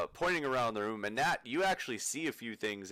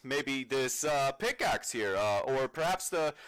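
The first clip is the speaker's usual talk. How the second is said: pushy salesman. Acted. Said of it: "he's just trying to sell you stuff".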